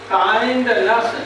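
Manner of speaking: kindness said slowly, kind and ness spelled out; slow demo word. Shown as a demonstration. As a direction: draw out kindness so each part is heard. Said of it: "जैसे अगर लिखा है". (kindness धीरे-धीरे, खंड अलग-अलग)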